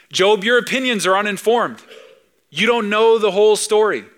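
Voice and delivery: God rebuking Job; voicing God. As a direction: speak as God setting Job straight.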